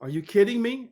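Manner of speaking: high disbelieving yelp; he can't believe what he's hearing; incredulous. Retold or imitated. Scoffing at his wife's suggestion, high disbelief. Reacting to wife's nurse idea.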